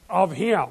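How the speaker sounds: OF HIM pressed hard and slow; emphasis on "Of him"; emphatic of him. Shown as a demonstration. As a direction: lean on Of him as the point. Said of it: "It's emphatic".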